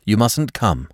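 sharp. Acted. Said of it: "said Alex sharply".

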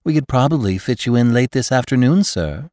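polite receptionist, a touch sweet; gracious society hostess. Acted. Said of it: "said the very warm voice of a hostess".

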